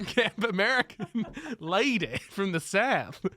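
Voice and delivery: hammed-up American Southern drawl, slowing; camp Southern lady. Shown as a demonstration. Actor showing his generic American, camp Southern lady accent. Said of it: "go into a camp".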